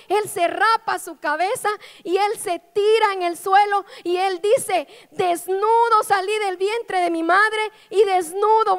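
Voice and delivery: fervent pulpit storytelling; sermon preaching. Acted. Preacher retelling Job.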